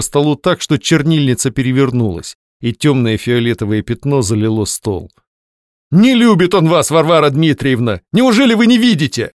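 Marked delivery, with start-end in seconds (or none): 5.9-9.3 high, loud angry burst; angry outburst. A narrator's reading. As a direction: explode at her. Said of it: "подобного взрыва от Твёрдышева".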